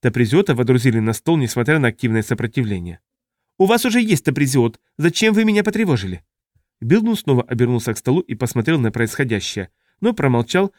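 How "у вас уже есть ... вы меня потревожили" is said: high-pitched alien creature voice; indignant squeal. A narrator's reading. Indignant Taprisiot complains at being disturbed, high squeal. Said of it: "верещали от возмущения".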